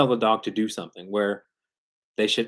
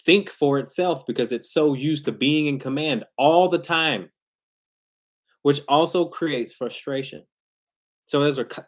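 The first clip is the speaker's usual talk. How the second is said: usual speaking voice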